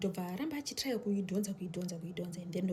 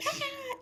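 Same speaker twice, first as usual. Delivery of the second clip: mock scream. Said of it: "akascreama zvati".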